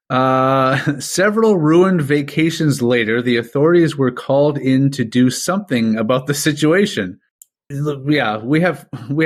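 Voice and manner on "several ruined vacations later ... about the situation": mock narrator.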